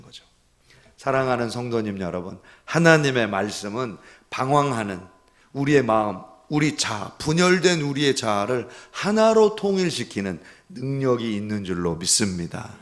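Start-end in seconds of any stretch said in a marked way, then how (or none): none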